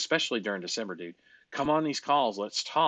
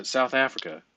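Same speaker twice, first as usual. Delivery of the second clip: mock South African; 2 semitones higher than usual. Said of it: "you shoulda been like".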